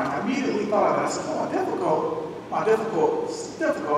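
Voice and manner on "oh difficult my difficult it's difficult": much higher, slowed breathy musing; dawning realization. Retold or imitated. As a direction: savor the word difficult as it dawns. Recalling the lyric, dawning realization.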